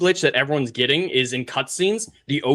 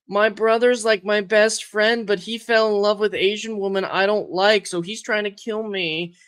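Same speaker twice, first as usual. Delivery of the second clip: whiny quest giver; 8 semitones higher than usual. Retold or imitated. Gamer mocking a quest giver in a high whine. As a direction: whine it out like a sulky brother. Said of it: "the first one was".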